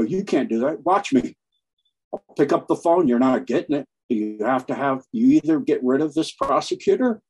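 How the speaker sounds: hammed-up boast of a bully on the phone; mock arrogant threat. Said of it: "they go".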